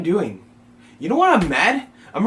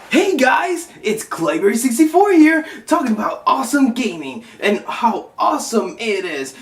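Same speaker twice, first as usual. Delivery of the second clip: upbeat host persona; 4 semitones higher, 4 dB louder than usual. Acted. Intro in another persona voice.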